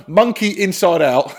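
mock-grand shout of his one-word note; reading notes aloud. Shown as a demonstration. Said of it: "I literally just put one word".

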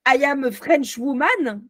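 put-on deliberate English accent, drawn out slowly; slow imitation of an English accent; attempted English accent. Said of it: "appris l'anglais avec l'accent anglais".

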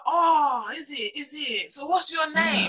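put-on voice of a man chatting someone up; mock flirty, pitch lifting on the question; chat-up. Man asking a stranger's name at night, chat-up.

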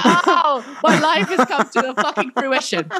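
lightly hammed-up self-parody; mock-dramatic, with a laugh breaking through; mocking own voice. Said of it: "That's literally how I sounded then".

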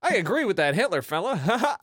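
laughing. Acted. Mock old-timey bigot voice.

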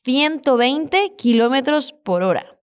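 slow Castilian accent, "Ciento" begun with th; drawn-out Spain accent for learners; Spanish accent. Shown as a demonstration. Teacher repeats how fast the man went, slow Spanish accent. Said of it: "con el acento español".

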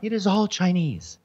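sudden high-pitched outrage on all Chinese; a pitch leap into mock outrage; voice up an octave. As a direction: jump up high, scandalised. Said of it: "why does your voice go up an octave".

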